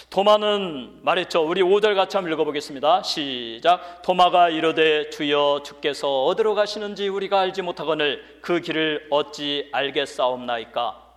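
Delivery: loud, projected scripture reading; preaching. Acted. Preacher leads the church reading Thomas's words, loud preaching. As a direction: lead the congregation through the verse at full voice.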